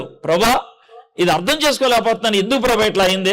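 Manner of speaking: gentle humble plea, no edge; asking politely. Shown as a demonstration. Preacher showing the congregation a respectful prayer, humble and gentle. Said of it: "అడుగు మర్యాదగా".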